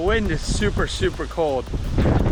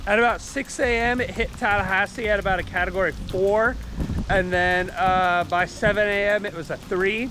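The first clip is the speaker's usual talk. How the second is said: raised voice over a storm; shouting over wind; 3 semitones higher than usual. Real, not acted. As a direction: call out over wind and rain. Filming outside during the hurricane.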